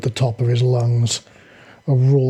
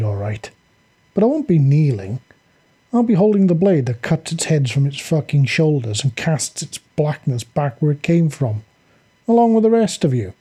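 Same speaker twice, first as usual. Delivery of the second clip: dark snarl; 2 semitones higher than usual. Acted. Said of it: "Jack snarled back darkly".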